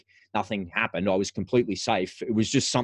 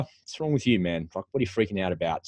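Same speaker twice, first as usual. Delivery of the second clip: harsh self-talk; 4 semitones lower, 4 dB quieter than usual. Retold or imitated. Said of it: "that's the kind of self-talk".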